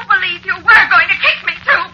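crying, shouting reproach; upset outburst. Acted. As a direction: wail it in hurt anger. Wife scolding husband, hurt.

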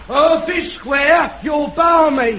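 slow shouted "Earth is square?"; heckling shout. Acted. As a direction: shout it up from the crowd.

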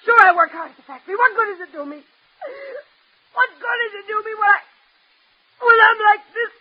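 tearful, broken-up complaint; crying. Acted. Daughter upset about school, work and her looks, crying. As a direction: force the words out between halting, tearful breaks. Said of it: "Stop crying like that".

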